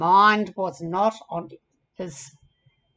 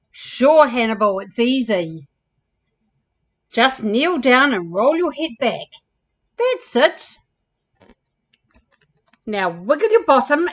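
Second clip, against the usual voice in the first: lightly voiced ostrich, a bit louder; encouraging storybook dance teacher; helpful ostrich character; 6 dB louder than usual. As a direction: cheer a pupil through the steps.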